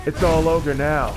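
shouted war cry; battle shout. Acted. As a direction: yell it into the fight. Battle cry in game fight.

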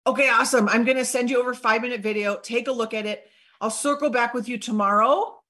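brisk enthusiasm with a bright sign-off; excited. Shown as a demonstration. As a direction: sound keen to hear back. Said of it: "Can you hear the excitement in my voice?".

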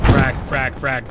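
loud urgent callout; grenade warning yell. Real, not acted. Teammate shouting grenade callout.

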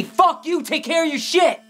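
high, loud furious yelling; angry shout. Acted. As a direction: scream it back at her. Couple's shouting quarrel.

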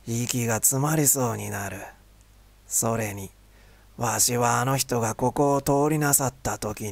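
an elder speaking calmly of the saint; creaky wise old man. Acted. Old vendor declines to go.

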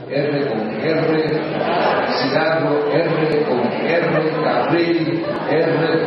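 drawn-out "R con R", practising the tricky trill; tongue-twister Rs. Shown as a demonstration. Speaker drills his tangled Rs for the audience, stretched-out "R con R". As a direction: labour slowly over each R in "R con R, cigarro". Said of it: "las R se me enredan en la boca".

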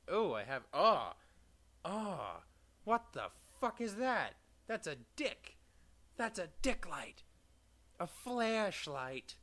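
high, loud disbelieving shouts; high, loud stunned laughing shouts; shocked outburst. Real, not acted. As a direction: yell in shock at the item. Discovers a weird item.

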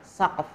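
"Saqf" ending on a bare f; no final vowel. Shown as a demonstration. Teacher showing students the reading, "Saqf" without a final vowel. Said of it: "Ini artinya bacanya gimana?".

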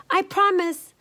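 put-on high pleading girl voice; a young girl begging, voice up high; little girl voice. A narrator's reading. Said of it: "Leola said".

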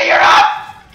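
high, slow shouted relief with no voice; breathless shout. Real, not acted. Reviving her teammate mid-fight, breathless shout. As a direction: gasp it out as a shout.

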